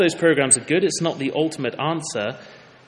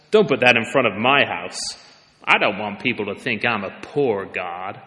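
louder, mocking American prosperity-preacher accent; 2 semitones lower, 4 dB louder than usual. A preacher mocks a rich TV pastor bragging about God, in a loud American accent. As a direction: ham up a boastful American televangelist. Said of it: "shall I try the accent?".

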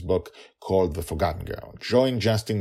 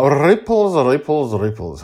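dramatic echo; 7 semitones higher, 9 dB louder than usual. Shown as a demonstration. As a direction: let the word fade like ripples. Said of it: "How this may ripple".

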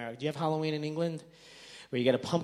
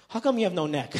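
imitated kid's yell, higher and louder; hammed-up child's taunt; mock yelling; 6 semitones higher, 7 dB louder than usual. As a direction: jokingly yell like a heckling child. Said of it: "like, yelling at me".

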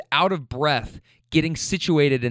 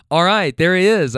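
excited callout; 3 semitones higher, 6 dB louder than usual. Retold or imitated. Rider retelling the man's arrival, excited callout. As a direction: call out his arrival, retold. Acted cheer as man arrives.

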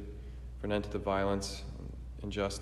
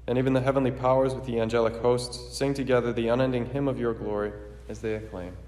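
formal, ringing liturgical proclamation; solemn preface prayer; 4 dB louder than usual. Acted.

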